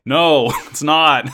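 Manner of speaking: slow, laughing no; mock-blunt reply through laughter. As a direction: chuckle out a blunt no. Retold character reply, laughing.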